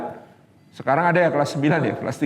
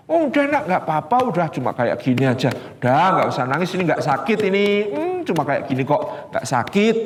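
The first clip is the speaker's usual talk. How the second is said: dismissive mother; faster than usual. Retold or imitated. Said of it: "Ada model ibu berikutnya".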